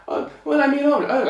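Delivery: high, stammering tailor voice; flustered tailor. Acted. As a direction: stall with a high, hesitant fluster. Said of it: "So the tailor said".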